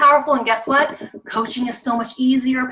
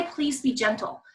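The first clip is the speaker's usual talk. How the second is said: gentle request; 6 dB quieter than usual. Shown as a demonstration. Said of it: "Just say".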